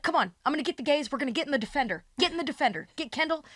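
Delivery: high-pitched bossy call to pile in; excited rallying. Retold or imitated. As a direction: round everyone up excitedly. Host rallying group to car.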